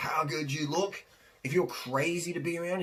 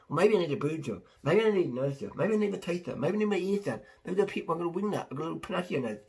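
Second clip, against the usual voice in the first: a hint of higher, fretting voice listing flaws; insecure self-critic; 4 semitones higher, faster than usual. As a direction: fret over each body part. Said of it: "now you're gonna".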